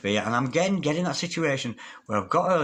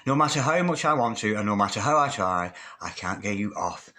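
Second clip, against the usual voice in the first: read again, fading; 2 semitones lower than usual. Acted. Repeats message, fading.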